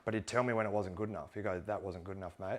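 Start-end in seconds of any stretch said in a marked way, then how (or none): 1.6-2.6 calm. Retold or imitated. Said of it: "he said it so calm".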